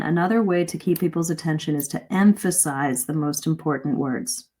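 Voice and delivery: key word "emphasize" set apart by pace and pitch; stress on EMPHASIZE. Shown as a demonstration. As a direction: pick out "emphasize" by stretching and lifting it. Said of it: "So listen to that again".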